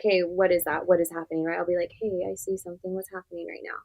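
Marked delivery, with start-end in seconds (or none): 2.0-3.8 high, hushed, gentle check-in; very soft. Shown as a demonstration. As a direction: ask softly in a small high voice. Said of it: "Very softly".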